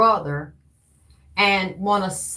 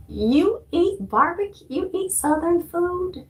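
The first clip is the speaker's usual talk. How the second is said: much higher and slow, stretched-out disbelief; mock incredulous question; 9 semitones higher, slower than usual. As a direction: draw it out high like you can't believe it. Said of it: "I said".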